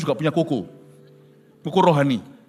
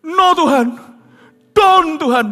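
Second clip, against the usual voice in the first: high, loud frantic pleading; pleading in fear; 11 semitones higher, 9 dB louder, slower than usual. Retold or imitated. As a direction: beg God in panic. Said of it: "Loh, kalau kok don-donan?".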